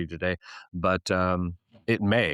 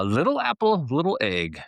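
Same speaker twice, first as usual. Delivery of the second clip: announced phrase; 8 semitones higher than usual. Shown as a demonstration. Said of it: "A common phrase in the Netherlands".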